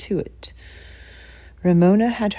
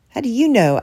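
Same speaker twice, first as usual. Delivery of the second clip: sharp retort; 6 semitones higher, 4 dB louder than usual. Acted. Retorting sister.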